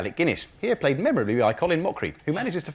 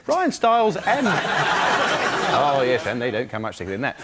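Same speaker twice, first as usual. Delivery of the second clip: Barry Norman. Acted. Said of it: "do it in the style of Barry Norman".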